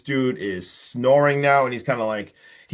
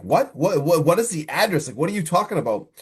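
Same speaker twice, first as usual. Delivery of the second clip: higher, stumbling disbelief; alarmed questioning; 5 semitones higher than usual. Retold or imitated. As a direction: imitate a baffled wife firing questions. Acted wife alarmed by caller's answer.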